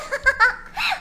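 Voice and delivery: short rising giggle. Real, not acted. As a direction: break into a giggle. Laughing while denying it.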